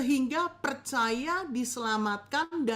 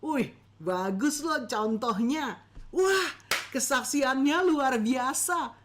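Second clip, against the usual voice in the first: impressed listener; 2 semitones higher, 3 dB louder, slower than usual. Retold or imitated. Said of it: "mereka bilang gini".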